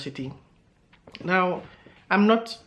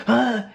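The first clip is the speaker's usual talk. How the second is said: higher-pitched mock "ah" of offence; imitated offended gasp; 5 semitones higher, 4 dB louder than usual. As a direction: imitate her affronted gasp. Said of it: "she was like".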